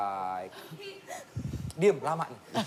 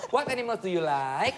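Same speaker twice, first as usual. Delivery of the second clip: gentle teaching; slower than usual. Retold or imitated. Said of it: "Gua ngajarin ya, ya kan gini".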